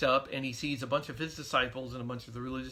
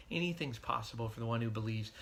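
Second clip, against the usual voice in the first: compassionate. Retold or imitated. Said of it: "said it so compassionately".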